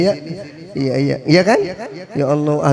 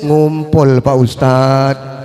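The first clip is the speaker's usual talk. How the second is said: put-on whiny child; 2 semitones lower, 5 dB louder, much slower than usual. Child whining it was teased.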